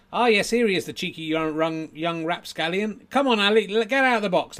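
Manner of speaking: high, loud coaxing patter; ventriloquist act. Acted. Ventriloquist urges Ali out of the box, high coaxing. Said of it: "here's my act".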